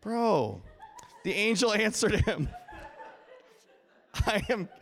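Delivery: breaking into laughter mid-reading; can't hold back the giggles; laughing. Real, not acted. Preacher cracks up reading Gabriel's reply to the congregation, laughing. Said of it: "I didn't expect that".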